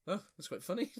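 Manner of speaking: mum laughing. Retold or imitated. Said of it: "She was like".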